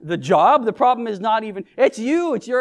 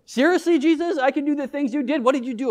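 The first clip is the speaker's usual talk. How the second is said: higher-pitched, disbelieving questions to Jesus; mock incredulous; 5 semitones higher than usual. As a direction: play an astonished believer, pitch starting high and easing down. Acting out believer questioning Jesus.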